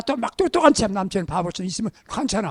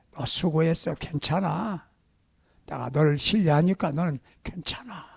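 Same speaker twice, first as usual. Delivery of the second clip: put-on softer, lower, gentle reassurance to a child; tender encouragement; 5 semitones lower, 6 dB quieter than usual. Shown as a demonstration. Parent comforting a child over bad grades, soft and tender. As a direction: soothe a child who failed his exams. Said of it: "감동을 줘보세요".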